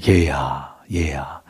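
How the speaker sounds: put-on tender, low call to a child. Father calling his elder son, tender. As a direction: call out lovingly, pitched low. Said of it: "아버지는 다정한 말로".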